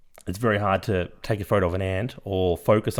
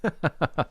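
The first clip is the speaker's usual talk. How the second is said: embarrassed laugh; 6 semitones higher than usual. Real, not acted. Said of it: "Robert De Niro impression".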